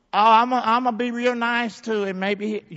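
mocking someone too nice to the devil; mock timid niceness. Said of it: "you need to get mad".

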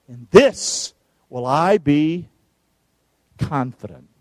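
slow, measured psalm reading with weight; slow scripture reading. Acted. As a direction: read each phrase like a proclamation. Reads psalm aloud slowly.

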